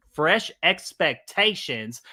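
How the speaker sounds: slow "fresh expectations", falling at the end; measured "fresh expectations" with a settled ending; careful repeat. Real, not acted. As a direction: say "fresh expectations" again deliberately, word by word. Corrects own stumbled take.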